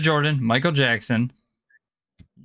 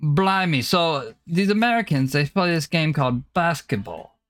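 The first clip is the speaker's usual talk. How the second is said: put-on British accent; 2 semitones higher than usual. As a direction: play a baffled Brit explaining America. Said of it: "talk in a British accent".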